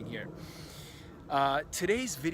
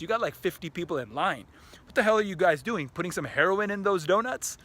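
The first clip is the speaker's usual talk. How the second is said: hammed-up vlogger act; 3 semitones higher than usual. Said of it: "I'm like".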